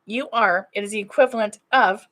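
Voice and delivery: talking through hiccups; hiccuping mid-sentence. Real, not acted. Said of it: "as I'm hiccuping".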